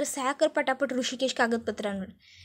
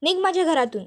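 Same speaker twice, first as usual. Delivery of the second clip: higher, scornful order to get out; rude order out; 4 semitones higher than usual. Acted. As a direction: throw her out of the house. Aishwarya throws Janaki out.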